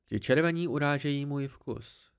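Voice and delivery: lightly voiced disdain, cold and dry. The hidden Cthaeh greets the boy, cold and dry. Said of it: "prohlásil chladný, suchý hlas".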